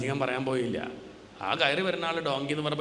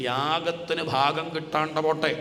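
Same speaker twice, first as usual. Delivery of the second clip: slow, louder curse; cursing; 3 semitones higher, 4 dB louder, slower than usual. Retold or imitated. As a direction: hurl the curse down slowly. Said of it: "ശപിച്ചു". (ശാപവാക്കുകൾ പതുക്കെ ഉറക്കെ)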